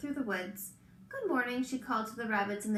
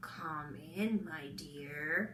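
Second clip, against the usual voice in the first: deep, rough, scratchy, hushed voice, "dear" stretched out; 6 semitones lower, 5 dB quieter than usual. Reading a story: answering Little Red's knock at Granny's door, deep, scratchy voice. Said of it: "it was a deep, scratchy voice that answered".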